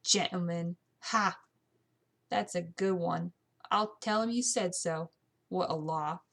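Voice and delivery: mildly scoffing housemaid; a touch of mocking amusement; snorting scorn. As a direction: scoff at the very idea. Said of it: "Mary snorted".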